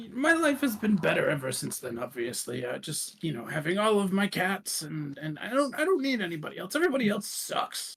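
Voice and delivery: lightly voiced grumbling old cat lady; mild self-pity, pitching up at the end; Tiffany. Aged Tiffany alone with her cats, lightly voiced grumble. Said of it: "you just hear her basically kind of mutter".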